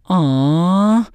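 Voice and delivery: drawn-out mock group aww; audience aww. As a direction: imitate a studio audience cooing. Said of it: "the whole audience just goes".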